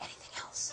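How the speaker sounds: hushed whisper, barely audible. Imagining calling across the house with dog hearing: whispering. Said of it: "And then I'd whisper".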